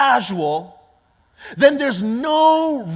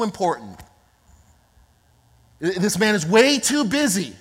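scolding crowd; 2 semitones lower, 4 dB louder than usual. Acted. Crowd telling the blind man to keep it down, stern scolding. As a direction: hush him, then lecture him sternly. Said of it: "telling him to what?".

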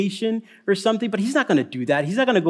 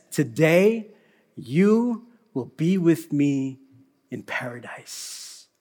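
slower, hushed today you will be with me; slow tender promise; slower than usual. Retold or imitated. Jesus promising the criminal, slow and tender. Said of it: "And Jesus says".

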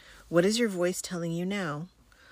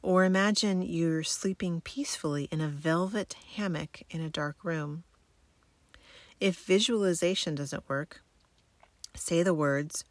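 sleep story narrator. Acted. Guides military sleep method relaxation.

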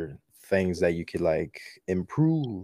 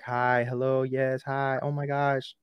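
high, gushing fan voice; excited fans; 5 semitones higher than usual. Retold or imitated. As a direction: squeal like a starstruck fan. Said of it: "Everybody's snapping me".

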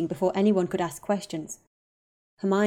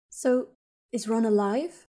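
voice shaking; 4 semitones higher, slower than usual. Acted. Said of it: "Hermione's voice shook".

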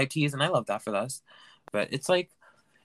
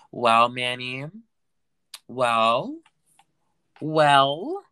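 mock scolding; 8 dB louder, much slower than usual. Imitating fans scolding him.

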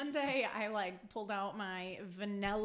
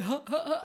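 fake laugh; 5 semitones higher than usual. Fake laugh at tired joke.

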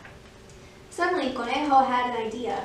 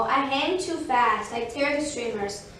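lightly voiced, emphatic rabbit; rabbit character. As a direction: protest mildly as the rabbit. Rabbit's excuse against tortoise's.

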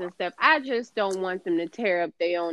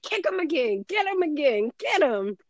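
cheering; 6 semitones higher than usual. Retold or imitated. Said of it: "I was like".

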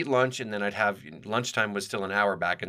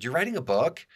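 fascinated; 7 semitones higher than usual. Retold or imitated. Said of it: "She got all fascinated and said".

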